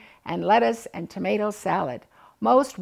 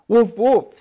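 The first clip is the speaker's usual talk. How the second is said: loud, pleased woofs; cheerful dog woof; happy dog bark; 9 dB louder than usual. A narrator's reading. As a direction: bark a thank-you over a bone. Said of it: "says Skipper".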